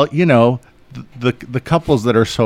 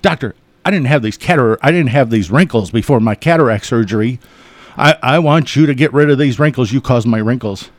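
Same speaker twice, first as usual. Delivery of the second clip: mad patient; 4 dB louder than usual. Retold or imitated. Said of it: "Just mad".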